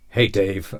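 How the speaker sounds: confident American accent. Shown as a demonstration. Greeting Dave in a confident American accent. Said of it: "I don't know why I'm American all of a sudden".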